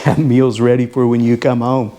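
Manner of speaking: ordinary delivery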